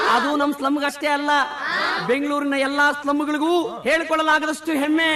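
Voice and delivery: public speech. Acted. Speech to slum crowd.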